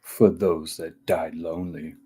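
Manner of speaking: slow, low seductive purr. Shown as a demonstration. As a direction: say it slowly to lure someone in. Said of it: "try and say it like a seductive voice".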